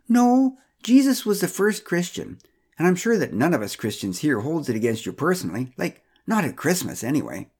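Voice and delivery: lightly voiced busybody, firm start then breezy; Pamela insisting. Pamela correcting Joseph at the party, lightly voiced and breezy. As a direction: brush off his point with cheery certainty.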